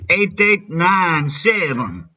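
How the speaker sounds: put-on slow Mexican-accented numbers. Prank caller slowly giving a fake number in a Mexican accent. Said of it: "My Mexican accent is all over the place".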